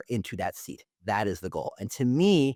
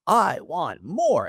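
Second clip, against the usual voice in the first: slow, drawn-out "I want more", louder and higher; greedy marketer; 4 semitones higher, 4 dB louder, much slower than usual. Retold or imitated. Marketer craving more, slow and showy. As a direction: stretch "I want more" like a Broadway opener. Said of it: "I should break into, like, a Broadway tune".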